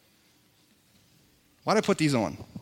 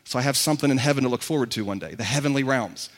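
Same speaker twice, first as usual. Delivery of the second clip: casual shrug; 5 semitones lower, 4 dB quieter than usual. Retold or imitated. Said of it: "some of you read that and think".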